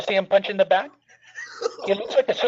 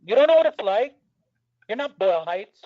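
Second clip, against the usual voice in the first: put-on belligerent drunk; 2 semitones higher than usual. Oscar voice picks a fight.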